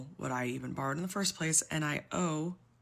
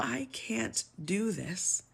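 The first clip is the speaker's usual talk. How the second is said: slow, higher, holding back tears; barely getting the words out; near tears; 5 semitones higher, much slower than usual. Real, not acted. Overwhelmed by the debt, slow and tearful. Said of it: "I am trying not to cry".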